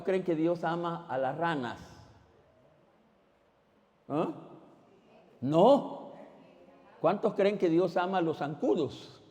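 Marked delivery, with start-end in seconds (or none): none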